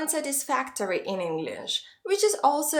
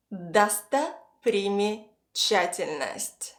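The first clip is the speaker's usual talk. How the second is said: Достопримечательность slowly, in three separated chunks; piece by piece; 2 semitones lower, slower than usual. Shown as a demonstration. Teacher repeats a hard word for learners, slowly chunked. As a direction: say Достопримечательность slowly with pauses after Досто and приме. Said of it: "try to piece it all together".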